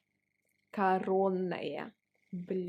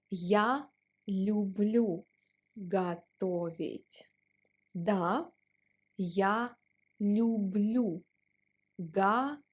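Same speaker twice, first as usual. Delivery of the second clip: slow teacher model; slower than usual. Shown as a demonstration. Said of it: "you can say".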